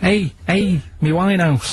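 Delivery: a Liverpool lad shouting "A, A, me Winehouse" at a robber; Scouse accent. Shown as a demonstration. The speaker acting the Scouse fella for his clue, Scouse accent. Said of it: "what the Scouse fella said".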